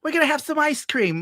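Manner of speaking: high-pitched impression of an old neighbour; mimicking an old friend, voice way up; Teddy. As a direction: pipe up in a high old-man falsetto. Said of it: "It's like".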